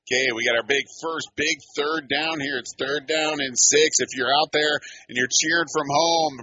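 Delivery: excited build-up to the next play; live play-by-play. Real, not acted. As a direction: rouse the home crowd for a big down. Rallies listeners before third down.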